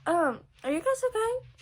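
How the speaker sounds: high, gentle checking-in question; concerned teacher. Retold or imitated. Teacher checking on two students, high and gentle. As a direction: lift the voice high to ask kindly. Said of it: "she's like".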